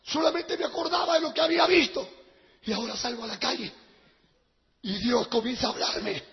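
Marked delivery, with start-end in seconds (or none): 2.6-6.2 hushed storytelling. Retold or imitated. Hushed lead-in to God speaking.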